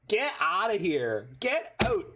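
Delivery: Canadian "Get out!", high, long drawn "out" like "oot"; Canadian accent. Pretend. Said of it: "That was a very Canadian out".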